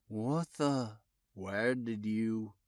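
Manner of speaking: awed detective, halting and hushed; stammered. A narrator's reading. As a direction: lose the words in disbelief. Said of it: "he stammered".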